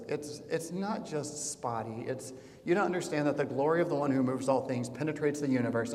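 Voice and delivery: patient tutor losing patience; mock-exasperated Beatrice; weary sigh. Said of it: "Beatrice again sighs and says".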